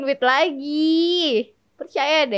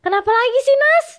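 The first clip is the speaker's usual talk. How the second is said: mild snap; 11 semitones higher, 5 dB louder, faster than usual. Retold or imitated. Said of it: "agak nyentak gitu kan".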